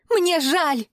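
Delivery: high, desperate scream; screamed apology. A narrator's reading. Tortured woman shrieks her apology at her captor. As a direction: shriek the apology to make it stop.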